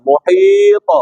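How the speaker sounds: मुहीत jumps sharply up in pitch; emphatic demonstration. Shown as a demonstration. A teacher stressing the word for the student. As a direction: make मुहीत ring out high. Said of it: "ऊपर जबान मखरज को लगकर वापस आए".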